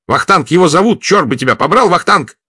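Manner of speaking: high, loud joyful shout. A narrator's reading. Vladimir joyfully telling Gerard the name, loud and high. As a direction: shout it out in delight. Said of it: "радостно пояснял Владимир".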